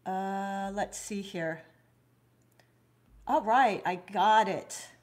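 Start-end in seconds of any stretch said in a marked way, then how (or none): 3.3-4.9 relieved triumph. Real, not acted. Finally finds the comments setting.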